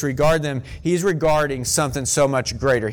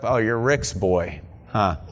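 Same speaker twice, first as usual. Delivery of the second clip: slow, drawn-out small-town recognition; lightly voiced older neighbor, drawing it out; mock recognition; 4 semitones lower, slower than usual. To Rick's son in the hallway, a slow, lightly voiced recognition. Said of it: "did you ever hear this growing up".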